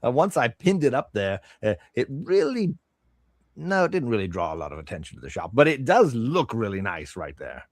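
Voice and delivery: lightly voiced merchant with a swinging lilt; a hint of a proud seller; chatty shopkeeper. Shopkeeper explaining the pinned-up armor to a customer, lightly chatty. Game master plays shopkeeper.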